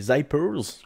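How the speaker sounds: French speaker's slow English accent on "zippers"; self-mocking English accent. Shown as a demonstration. Coach jokingly names the exercise in his English accent. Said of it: "avec mon magnifique accent".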